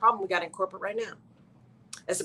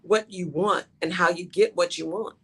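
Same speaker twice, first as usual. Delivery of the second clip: calm; 2 semitones lower than usual. Retold or imitated. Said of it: "And he is so calm".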